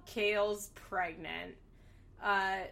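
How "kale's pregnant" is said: slow, drawn-out reveal of Kale's pregnant; mock surprise reveal. Shown as a demonstration. Host revealing to viewers, drawn-out mock surprise. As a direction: announce Kale's pregnant like big news. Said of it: "but surprise".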